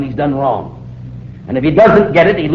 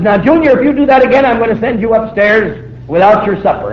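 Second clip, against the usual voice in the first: a father's raised, higher warning to his son; stern father warning; 4 semitones higher than usual. Retold or imitated. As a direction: threaten the boy firmly, voice up. Father threatening misbehaving son.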